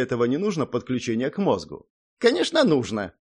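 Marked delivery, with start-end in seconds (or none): 2.2-3.1 high, huffy gnome voice; disgruntled snort. A narrator's reading. Gnome correcting the hero's thought, disgruntled. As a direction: huff it out, put out. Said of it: "фыркнул недовольно Зак".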